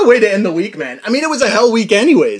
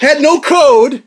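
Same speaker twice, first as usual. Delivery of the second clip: slow dramatic; 6 semitones higher, 4 dB louder, much slower than usual. Real, not acted. Dramatic punch.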